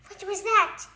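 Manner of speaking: high, loud rising shriek; terrified shriek. A narrator's reading. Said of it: "shrieked Mister Jelly".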